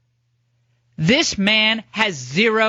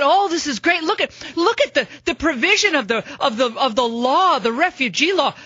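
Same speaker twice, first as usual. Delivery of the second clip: mock officials; 3 semitones higher than usual. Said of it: "their belief that".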